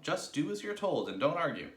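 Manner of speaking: high, loud scolding order; impatient shout. A narrator's reading. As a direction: shout to end the argument. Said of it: "shouted Mugglewump".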